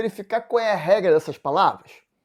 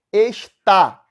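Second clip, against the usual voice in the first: "Está" in two beats, es-TÁ, louder on the end; oxytone stress; 3 semitones higher, 6 dB louder than usual. Shown as a demonstration. Teacher shows the word is oxítona, "Está" with strong final stress. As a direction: split "Está" and hit the last syllable hard. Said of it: "está é oxítona".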